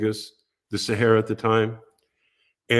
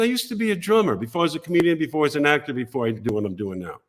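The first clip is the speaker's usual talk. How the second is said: imitating Gary; 3 semitones higher, faster than usual. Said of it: "he said".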